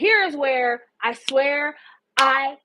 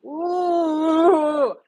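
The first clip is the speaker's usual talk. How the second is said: long ooh; 3 semitones higher, 4 dB louder than usual. Retold or imitated. Narrator sounding out poor Nick outside, long ooh.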